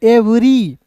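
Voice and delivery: एवरी said carefully as "ev-ree"; sounded-out pronunciation. Shown as a demonstration. Teacher repeating the word for learners, sounded-out pronunciation. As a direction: model एवरी with an opening "e". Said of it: "एवरी पढ़ेंगे".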